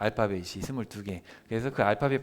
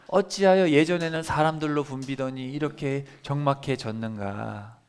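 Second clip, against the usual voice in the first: slow lament reading; 3 dB louder than usual. Shown as a demonstration. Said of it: "이런 뜻이에요".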